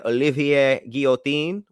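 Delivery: fancy French accent on the name; put-on French accent. Real, not acted. Reading out the perfumer's name to a co-host, put-on French accent. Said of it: "you threw that accent on".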